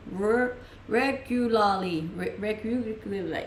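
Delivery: "regularly" broken up slowly after a stuck "Re-"; struggling to pronounce. Shown as a demonstration. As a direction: sound out "regularly" slowly, tripping on the syllables. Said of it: "I can't say it".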